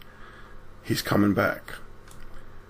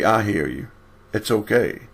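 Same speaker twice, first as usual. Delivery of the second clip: gentle reassurance. Acted. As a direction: reassure someone who just cried out. God voiced answering a cry.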